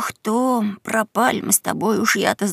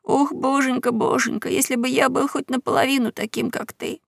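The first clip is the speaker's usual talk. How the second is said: sobbing; 5 semitones higher than usual. Acted. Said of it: "Геккельбери тоже принялся всхлипывать".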